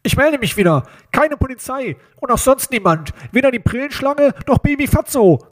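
menacing phone caller disguising his voice; disguised nose-pinched voice. A narrator's reading. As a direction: talk as if holding your nose. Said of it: "als würde jemand die Stimme verstellen".

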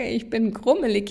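light, amused take on "grummelig"; amused grumpiness. Shown as a demonstration. Coach showing a word that makes you chuckle, amused grumpiness. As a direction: say it as if about to laugh. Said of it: "ich kann's nicht mal hier aussprechen, ohne".

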